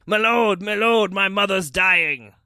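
high, loud cry for help; desperate shout. A narrator's reading. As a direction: shout it out to stop a passing lord. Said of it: "rushed out from the crowd and shouted".

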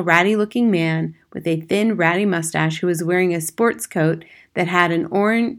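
plain reading voice

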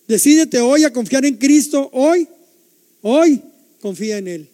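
loud, rising plea on hoy; fervent preacher's appeal to act now; urgent call. Real, not acted. Preacher urging the congregation.

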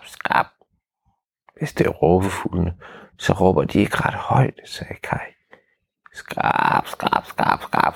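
hushed scratchy storytelling; whispered suspense. A narrator's reading. Skrabelyd og hvisken i skoven. (hviskende spændingsfortælling)

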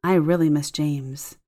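slow, understated sadness; a hint of sadness. Lonely sick client missing husband, a touch sad and slow. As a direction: let a little sadness slip in, slowly. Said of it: "with a hint of sadness in her voice".

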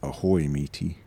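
low pirate growl. Pretend. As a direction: play a lightly voiced pirate. Pirate talk banter.

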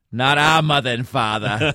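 put-on light Boston accent; a hint of Boston vowels. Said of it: "in their classic Boston accents".

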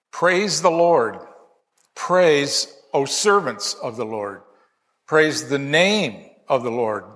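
measured, solemn reading of the psalm; scripture reading. Acted. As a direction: read it out like a psalm in church. Reads psalm aloud.

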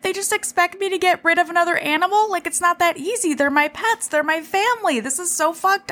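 high, whiny mock sob, a bit fast; imitating a wife bawling over her pets; mock crying whine. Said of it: "She's crying in her knockoff Adidas tracksuit".

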